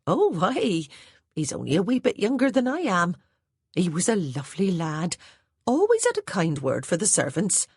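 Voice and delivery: put-on a plain-spoken old housemaid reporting orders; Hattie the maid's voice. A narrator's reading.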